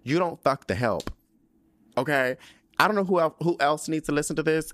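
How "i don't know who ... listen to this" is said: a louder, higher podcast announcement; podcast moment. Real, not acted. Podcaster breaking in to address listeners, excited. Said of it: "interject a podcast moment".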